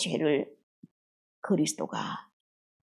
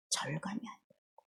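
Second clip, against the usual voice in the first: whisper; 17 dB quieter than usual. Real, not acted. Confessing inner numbness.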